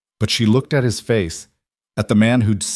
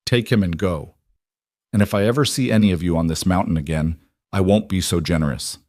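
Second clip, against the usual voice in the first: gritted teeth. Acted. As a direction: warn them, jaw locked in pain. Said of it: "through gritted teeth".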